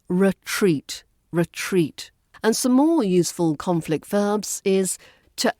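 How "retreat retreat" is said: retreat with the weight on treat; re-TREAT, hit the second part; stress on second syllable. Shown as a demonstration. Teacher modelling stress in retreat. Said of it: "The verb stress on the second syllable".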